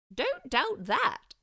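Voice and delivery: slow, encouraging headmaster; reassuring. Acted. Headmaster reassuring students on the way back. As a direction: reassure them gently. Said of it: "the headmaster reassured them".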